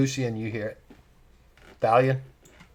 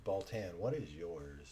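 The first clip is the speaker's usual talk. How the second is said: distorted robotic audio; glitchy vocoder sound; 6 semitones lower, 14 dB quieter than usual. Real, not acted. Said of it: "backup singer for a band".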